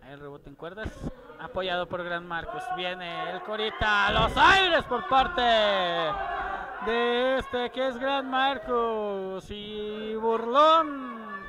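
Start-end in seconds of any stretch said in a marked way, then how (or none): 2.8-11.4 excited call. Real, not acted. High-flying move called.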